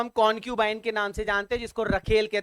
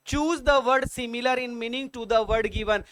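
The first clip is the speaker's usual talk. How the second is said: slow quiz read-out; much slower than usual. Shown as a demonstration. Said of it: "reads quiz question slowly".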